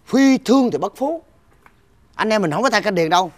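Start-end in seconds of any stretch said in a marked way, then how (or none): 0.1-1.2 slow, high-pitched proverb; quoting a saying. Acted. Younger brother pitches business to brother, slow proclaimed saying. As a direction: deliver the saying loftily and slowly. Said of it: "anh có nghe con bà nói câu không".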